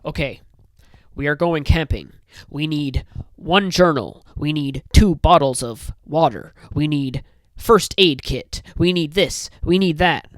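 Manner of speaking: mock Wes Anderson character reading a packing list; deadpan itemizing. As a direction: tick off each item like a checklist. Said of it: "they're just gonna say it like".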